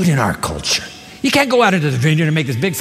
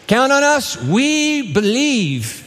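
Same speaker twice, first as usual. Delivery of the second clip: high then very slow pious pledge; eager pledge; 6 semitones higher, much slower than usual. Acted. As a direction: promise it big and solemn.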